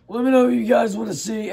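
rough, hoarse voice after a cough. Real, not acted. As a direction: talk through a hoarse voice. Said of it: "I sound absolutely awful".

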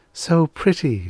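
high, admiring sigh of a she-creature; sighing delight. A narrator's reading. Airy creature to the daffodils, sighing in delight. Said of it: "she sighed".

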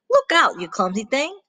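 a short burst of scolding at the start; rooster's cross warning. Acted. Rooster warns the clumsy cow off, mildly cross.

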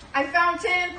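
loud, high storybook call. Acted. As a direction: call across the room to Purdy. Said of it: "called Pongo".

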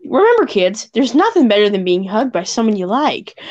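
Caroline voice. Pretend. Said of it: "I did that in the Caroline voice".

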